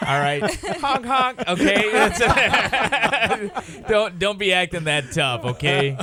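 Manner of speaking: high, laughing clown voice; silly clown. Retold or imitated. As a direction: honk it like a goofy clown. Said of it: "And I'm like".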